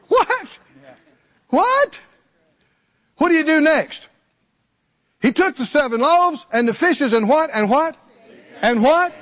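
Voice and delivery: high, fast call and response; a fired-up preacher pushing the crowd to answer; excited preaching. Acted. Preacher quizzes the congregation on what Jesus did next, excited.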